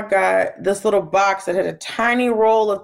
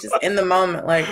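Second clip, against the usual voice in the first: ordinary talk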